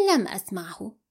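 low, cool and even; calm. A narrator's reading. Amal provoking her fiancé with calm. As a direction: answer coolly to provoke him. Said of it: "بهدوء ردت".

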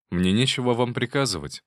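ordinary delivery, nothing marked

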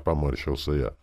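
ordinary delivery, nothing marked

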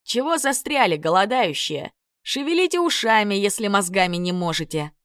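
насмешливый крик; shouted at the trolls. Acted. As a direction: yell across to the dim trolls, teasing. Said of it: "крикнул троллям".

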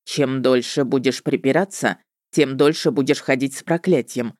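low, unbothered witcher voice; Любомир. A narrator's reading. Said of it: "пожал плечами ведьмак Любомир".

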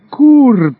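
a deliberately crude howl of recognition; loud mock shout; wild yell. A narrator's reading. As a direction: yell the name at the top of the voice. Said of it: "завопила я дурным голосом".

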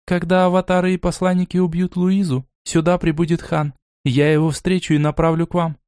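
a hint of fatigue in a female voice; weary elf. The elf finishing her plan to Borey, mildly tired. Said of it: "устало закончила она".

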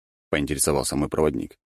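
ordinary delivery, nothing marked

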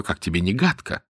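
ordinary delivery, nothing marked

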